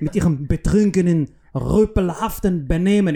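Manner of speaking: mock-British officer, stretching the words; formal rebuke in hammed-up British-accented German. British agent scolding a drunk soldier, mock British accent. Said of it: "als Brite, der dann so".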